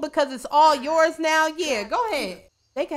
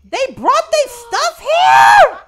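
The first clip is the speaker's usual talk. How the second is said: slow, high, loud outraged yell; outraged shout; 13 semitones higher, 13 dB louder, much slower than usual. Real, not acted. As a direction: yell it out in disbelief. Outraged at campers in home.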